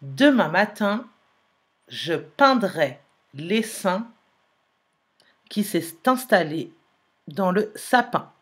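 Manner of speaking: clear, measured dictation reading; slow dictation. Shown as a demonstration. Teacher dictating the sentence to pupils, slow and clear. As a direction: read it slowly so pupils catch every sound. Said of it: "Écoutez bien".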